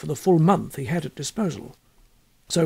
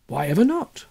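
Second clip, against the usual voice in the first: curious scholar. Acted. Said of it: "said Thompson".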